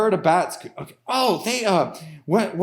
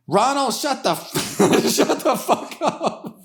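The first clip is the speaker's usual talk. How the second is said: angry farmer; 6 semitones higher than usual. Acted. Farmer voiced yelling at pig.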